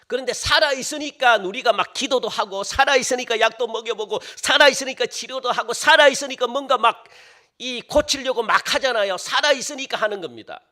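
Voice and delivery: insistent preaching. Real, not acted. Preacher drives the point home.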